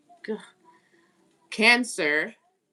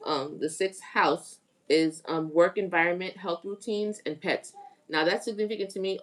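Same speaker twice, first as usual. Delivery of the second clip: speech blurred by a retainer; wearing a retainer. Real, not acted. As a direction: talk with a retainer in. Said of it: "please excuse me if I'm saying this shit funny".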